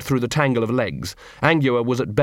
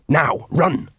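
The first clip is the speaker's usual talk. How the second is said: higher, punched-out command; urgent order; 4 semitones higher than usual. A narrator's reading. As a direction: send her running, urgently.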